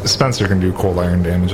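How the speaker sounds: usual speaking voice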